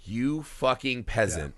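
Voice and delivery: slow, quiet contempt; retold snap. Husband dropping his nice act with wife, slow quiet scorn. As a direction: imitate cold disdain, drawing the words out. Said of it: "And then he snaps and, like, the true face".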